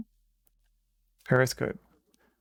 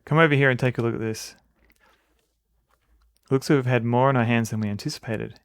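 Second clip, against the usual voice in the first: louder, commanding sub captain; 6 dB louder than usual. Acted. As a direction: read it as a gruff-free ship captain giving orders. Voices the captain.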